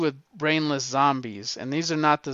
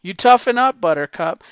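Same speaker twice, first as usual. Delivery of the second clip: barking coach, louder on toughen up; a coach yelling at a whiny player; 3 semitones higher, 4 dB louder than usual. Retold or imitated. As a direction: drill sergeant bark. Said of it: "It's like coaches, man".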